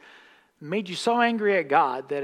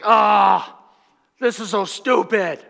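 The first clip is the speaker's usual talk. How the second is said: loud, higher exasperated groan; fed-up Naaman; 5 semitones higher, 11 dB louder, slower than usual. Retold or imitated. Preacher voicing Naaman grumbling after the fifth dip. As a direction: complain like a man sick of dipping. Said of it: "it's like".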